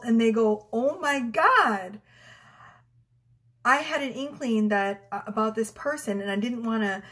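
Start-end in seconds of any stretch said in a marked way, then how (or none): 0.7-2.0 drawn-out, higher-pitched amazement; astonished. Retold or imitated. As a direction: stretch it out like a client's stunned reaction. Retelling clients' astonished reaction.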